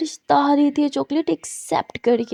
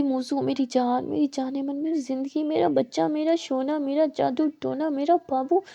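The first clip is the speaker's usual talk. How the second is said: sweet coaxing; 2 semitones higher, 3 dB quieter than usual. Acted. Coaxing angry friend with pet names.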